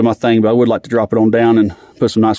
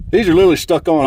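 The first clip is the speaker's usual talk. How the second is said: out of breath; 5 semitones higher than usual. Real, not acted. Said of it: "I'm sorry I'm out of breath".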